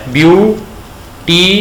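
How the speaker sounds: very slow, each syllable of ब्यूटीफुल pulled apart. Shown as a demonstration. Teacher counting syllables for the student, very slow. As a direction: break ब्यूटीफुल into its three beats slowly. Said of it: "कितनी दफा रुकना पड़ता है".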